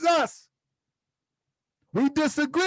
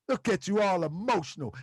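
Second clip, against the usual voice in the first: a light imitation of a battle rapper, mocking; 4 semitones lower than usual. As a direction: tease them like the battle rapper, lightly voiced. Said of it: "And my battle rapper voice".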